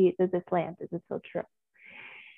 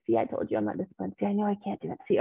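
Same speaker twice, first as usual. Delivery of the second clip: mocking inner critic; faster than usual. Coach voicing the inner critic to the group, lightly nagging. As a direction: rattle it off like the voice that always doubts you. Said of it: "the inner critic grows".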